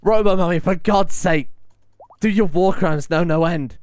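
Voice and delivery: half-laughing exasperation; exasperated. Real, not acted. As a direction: scold the character in mock despair. Exasperated at colonist's antics.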